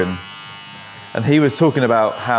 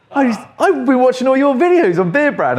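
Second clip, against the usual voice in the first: high, gushing fan voice, much higher; starstruck fan; 12 semitones higher than usual. Retold or imitated. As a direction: mimic an excited steward spotting a celebrity. Steward gushing at recognised barber.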